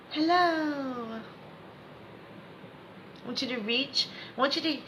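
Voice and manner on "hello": high, long-held greeting; called-out hello. Shown as a demonstration. Coach prompting students to hear themselves again, called out. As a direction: lift the word up and stretch it.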